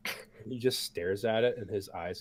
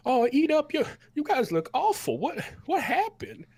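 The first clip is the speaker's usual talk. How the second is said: put-on much higher, louder folksy old cook voice; 7 dB louder than usual. The cook hands bowls to the battered party, high and folksy. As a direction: play the big cook fussing over them.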